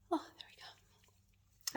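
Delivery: slow soft whisper to herself. Real, not acted. Talking to herself mid-wax, slow whisper. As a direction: murmur while focusing hard.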